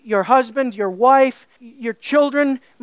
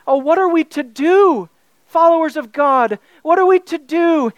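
raised, louder worried cry to God's followers; anxious lament; 3 semitones higher, 3 dB louder than usual. Acted. Preacher voicing a worried Israelite's anxious lament. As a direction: plead like a frightened believer.

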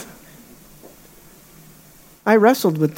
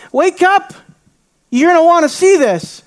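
much higher, eager and alarmed; urgent wake-up call; 8 semitones higher than usual. Retold or imitated. Disciples rousing sleeping Jesus, higher and urgent. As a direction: shake him awake.

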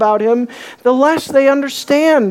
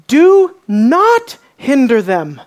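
slow, firm and raised, each word set down; Jesus rebuking the disciples, slow and stern; indignant command; 3 dB louder, slower than usual. Acted. As Jesus scolding his disciples, firm and raised. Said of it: "His voice is filled with communication that he's not happy".

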